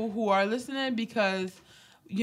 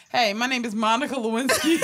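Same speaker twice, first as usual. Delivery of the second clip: mock celebrity introduction; 2 semitones higher, 5 dB louder than usual. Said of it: "Versus if you like".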